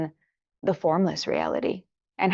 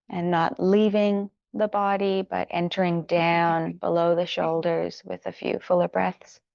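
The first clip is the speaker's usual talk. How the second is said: gentle guiding with long pauses between phrases; guided meditation. Acted. Teacher settling students into their bodies, unhurried guided meditation. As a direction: ease them inward phrase by phrase, unhurried.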